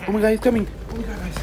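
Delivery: high, loud alarm that drops in volume; panicked cry. Acted. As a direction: cry out as the threat closes in. Intruder is coming at them.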